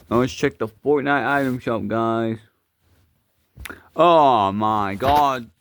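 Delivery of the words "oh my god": slow loud exasperation. Acted. Shop shows Star Wars.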